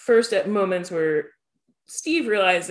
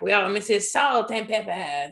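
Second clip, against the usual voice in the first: put-on French accent. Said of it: "'Cause they're like".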